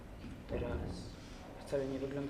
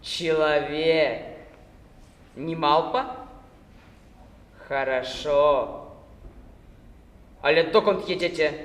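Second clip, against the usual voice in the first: very slow, syllable by syllable, louder; mocking Cossack, each syllable dragged apart; joking, splitting syllables; 2 semitones higher, 11 dB louder, slower than usual. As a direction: tease him, drawing out every syllable. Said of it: "dzieląc sylaby wyrazów, zażartował".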